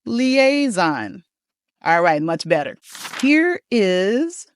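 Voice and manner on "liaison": "Liaison" drawn out with a buzzing z; careful teacher's "Liaison" with a z in the middle; model pronunciation of liaison. Shown as a demonstration. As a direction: lead a class in "Liaison", higher, as lee-AY-zon. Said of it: "One more time together".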